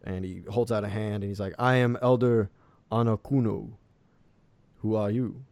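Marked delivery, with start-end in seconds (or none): 1.6-5.4 lightly voiced elder, raised and deliberate; elderly half-elf. Elder holds out a hand to the captain, lightly voiced elderly half-elf. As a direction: introduce yourself as a village elder, firmly. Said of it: "a elderly half-elf".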